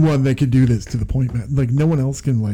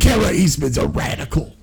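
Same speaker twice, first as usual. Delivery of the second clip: mock outrage. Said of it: "mocking attack ad".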